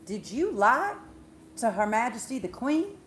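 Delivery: loud, emphatic announcement of charges, rising questions; accusing court official. Retold or imitated. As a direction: pronounce a treason charge like a royal herald. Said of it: "and says".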